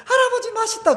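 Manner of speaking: high-pitched imitation of a happy grandchild; very high, playful child voice; delighted grandchild. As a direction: squeal it lightly like a child to grandpa. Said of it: "수박 썰어서 주면 그걸 맛있게 먹으면서".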